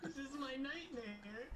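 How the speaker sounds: high mock panic through laughter; giggling, hammed-up horror at being teased; laughing dismay. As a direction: squeal it like a playful nightmare. Retelling being teased at rehearsal.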